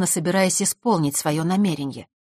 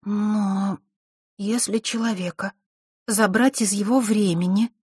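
slow; 4 semitones higher, slower than usual. Acted. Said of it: "медленно начала Василиса".

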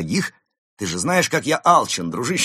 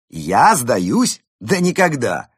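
loud, high indignant outburst; 4 semitones higher, 7 dB louder, much slower than usual. A narrator's reading. Panda denying to Ulis that he gives up, indignant. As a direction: throw the accusation back, loud and offended. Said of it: "возмутился панда".

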